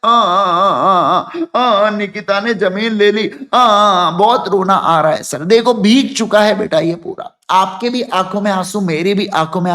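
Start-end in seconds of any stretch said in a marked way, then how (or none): 0.0-5.4 mock crying student. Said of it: "वो तो टप टप रो रही है".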